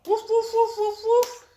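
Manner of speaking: high, loud playful woofs; barking dog. Acted. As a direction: woof like an excited little dog. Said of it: "Dog says".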